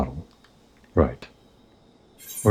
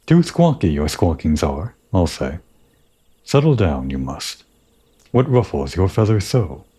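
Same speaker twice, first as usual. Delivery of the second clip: Ixal birdman. Acted. Ixal reporting the airship attack, lightly voiced bird creature. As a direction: chatter it out like a bird tribesman.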